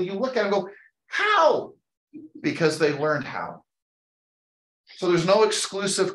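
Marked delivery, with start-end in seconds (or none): 1.1-1.7 a high, loud, amazed "How?"; mock the baffled onlooker; incredulous how. Mocking listeners' disbelief at others' success.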